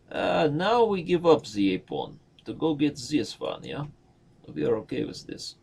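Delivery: playful mock Russian accent. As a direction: put on a Russian accent for fun. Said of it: "That is my Russian accent".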